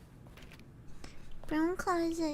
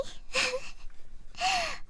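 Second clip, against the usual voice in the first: soft laugh; 9 semitones higher, 8 dB quieter than usual. Real, not acted. Soft high laugh at end.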